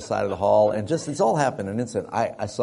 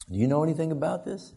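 higher but controlled repeat question; mock measured questioning; 7 semitones higher, faster than usual. Dad asks his lying son again, restrained interrogation. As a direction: ask it again, holding back the volume.

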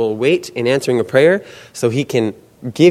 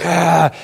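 strained mock yell, raised pitch; imitated lifting yell; 6 semitones higher than usual. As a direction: imitate a weightlifter straining under the bar. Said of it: "buff guys screaming and yelling".

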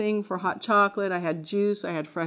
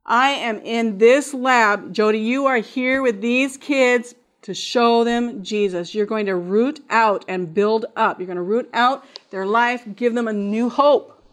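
slow, solemn, louder calling; voice of the Lord; 3 semitones higher, 6 dB louder than usual. Acted. Woman voicing the Lord's charge to her, solemn and slow. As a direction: speak as God commanding her.

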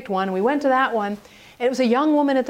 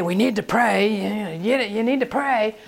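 preachy nagging; 2 semitones lower than usual. Retold or imitated. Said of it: "don't get up and say".

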